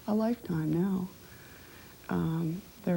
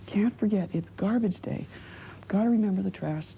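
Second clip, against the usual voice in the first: chirpy reminder; 4 semitones higher than usual. Retold or imitated. Acts out her routine weekly reminder.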